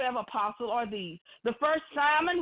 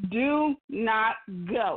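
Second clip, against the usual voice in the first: very slow, deliberate, each word drawn out; 3 semitones lower than usual. Repeating a point to the audience so it sinks in, said really slow. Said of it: "I'm going to say it really slow".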